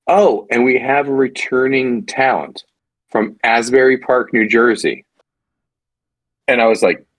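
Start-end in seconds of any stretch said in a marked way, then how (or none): 0.1-5.0 mock announcer. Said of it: "how they framed it was".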